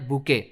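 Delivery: बुके said boo-KAY, with no t sound; French-style silent t ending on बुके; silent-t pronunciation. Shown as a demonstration. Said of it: "इसमें टी भी आता है, लेकिन इसका pronunciation है".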